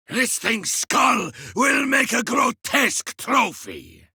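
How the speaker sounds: warrior's shouted kill boast; triumphant shout. Acted. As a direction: shout the victory to the squad. Shouted gloating over kill.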